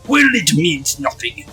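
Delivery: scornful villain. Acted. Accused artist dismissing those brats until his exhibit ends, scornful villain voice. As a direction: dismiss the brats with haughty contempt.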